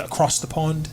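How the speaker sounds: a bad British accent, tried for fun; hammed-up British accent; terrible British accent. Shown as a demonstration. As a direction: put on a clumsy British accent for "across the pond". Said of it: "that's a terrible accent".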